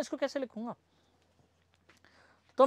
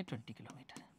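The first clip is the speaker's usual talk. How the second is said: student's answer; 10 semitones lower, 21 dB quieter than usual. Retold or imitated. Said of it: "तो आप कहेंगे".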